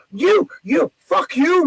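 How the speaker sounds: high, spluttering mock outrage; imitating an offended woman losing it; indignant lady. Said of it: "she keeps going".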